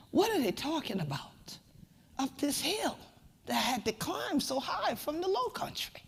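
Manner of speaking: half-whispered wondering to herself; puzzled whisper. Retold or imitated. Asking herself about the folks up the hill, whispered. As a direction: wonder aloud under her breath.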